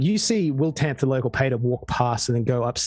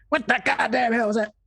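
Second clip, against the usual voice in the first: angry yell; 9 semitones higher than usual. Acted. Angry boarder yelling upstairs.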